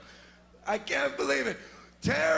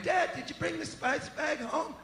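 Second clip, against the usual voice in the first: lightly voiced kid; 4 semitones higher, 4 dB quieter than usual. Kid voice in sketch.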